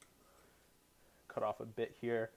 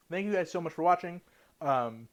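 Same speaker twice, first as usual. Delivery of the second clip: talking while chewing; chewing steak; 4 semitones higher, 4 dB louder than usual. Real, not acted. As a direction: speak through a mouthful. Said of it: "sorry, still chewing".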